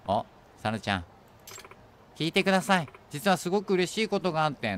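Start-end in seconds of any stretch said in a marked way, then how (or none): 2.1-4.8 higher-pitched, acted girl with good news; happy announcement. Sana tells Yagami her good news, lightly acted happiness. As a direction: voice a singer bursting to share news.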